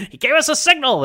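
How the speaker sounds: a hint of a stiff police commissioner; mocking Commissioner Gordon. Host reciting Gordon's few lines, mild mock voice. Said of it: "I could probably recite them all".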